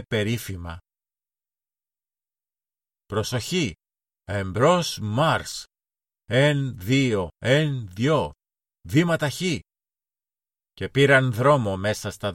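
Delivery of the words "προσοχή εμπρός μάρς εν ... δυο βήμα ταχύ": put-on child captain barking marching orders, Εμπρός μάρς dragged out slowly; playful drill commands. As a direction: count the march like a little officer. Boy drills his play army.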